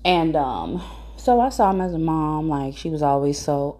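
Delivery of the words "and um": usual speaking voice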